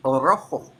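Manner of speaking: Rojo with a long trilled R; rolled R. Shown as a demonstration. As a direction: roll the R in Rojo hard, Spanish style. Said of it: "I'm rolling my R's a lot better".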